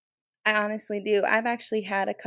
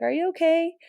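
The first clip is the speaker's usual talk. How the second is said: high, lifted, retold question; imitating her own worried asking; concerned check-in; 10 semitones higher, 6 dB louder than usual. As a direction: re-enact anxious concern for a trainee. Retold concern for tearful trainee.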